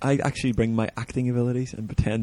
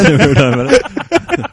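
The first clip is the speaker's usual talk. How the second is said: laughing; 5 semitones higher, 8 dB louder, much slower than usual. Retold or imitated. Echoing the joke, laughing.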